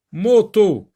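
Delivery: "Moto" as mo-to, high and loud; teacher sounding out "Moto" in two syllables. Shown as a demonstration. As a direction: punch both beats of "Moto". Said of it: "diviser le mot en syllabes".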